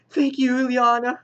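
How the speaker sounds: high mock-whiny voice; whiny crybaby. X-Man thanking her new friend, mock whiny. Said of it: "when did she become this whiny crybaby".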